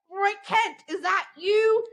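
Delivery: high, called-out British voice; mock British shout. Retelling a show scene, calling out in mock British. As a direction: call out down a manhole. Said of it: "somebody goes".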